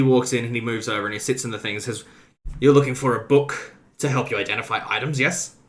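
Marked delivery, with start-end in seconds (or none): 2.6-5.6 put-on curious old man. Old wizard NPC questioning.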